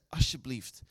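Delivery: hushed begging, close to the ear; mild retold whisper of a desperate man; pleading whisper. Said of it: "En fluisterde in zijn oren".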